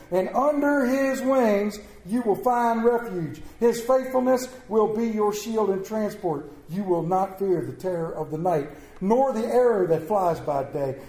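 scripture reading. Acted. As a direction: lay the psalm out for the congregation. Reads Psalm 91 aloud.

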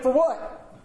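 puzzled, half-laughing for what; clueless question. Retold or imitated. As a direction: ask it baffled with a laugh. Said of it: "And I went".

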